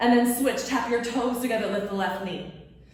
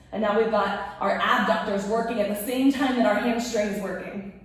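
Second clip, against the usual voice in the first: shaky voice. Real, not acted. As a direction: voice trembling from muscle strain. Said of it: "my voice is shaking 'cause my legs are shaking".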